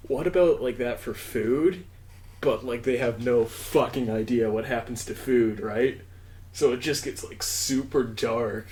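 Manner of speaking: slow, drawn-out stereotype stoner; high stoner voice. Acted. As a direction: play a stereotypical high guy pitching an idea. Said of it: "I love your high voice".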